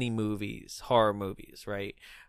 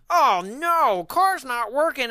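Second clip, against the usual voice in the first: high-pitched fake alarm; hammed-up horror-movie distress, pitch way up; mock dismay; 11 semitones higher, slower than usual. Imitating a horror-movie driver faking a breakdown, mock dismay.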